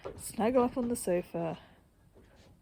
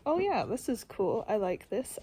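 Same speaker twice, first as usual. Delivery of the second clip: pleased and upbeat. Retold or imitated. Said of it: "alternating between".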